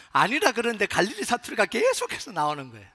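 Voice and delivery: heated, projected insistence; emphatic outburst. Acted. Repeats it as heated denial.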